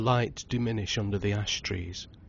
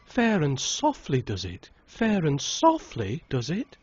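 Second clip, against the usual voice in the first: higher, drawn-out singsong retort; contrary cry; 7 semitones higher, 3 dB louder than usual. A narrator's reading. Aunt contradicting the uncle, contrary cry. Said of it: "cried his aunt".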